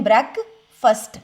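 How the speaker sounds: ब्रेकफास्ट slowly as brekfəst; slow model pronunciation. Shown as a demonstration. Teacher modelling the word slowly for students, brekfəst. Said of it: "फास्ट नहीं और ब्रेक नहीं".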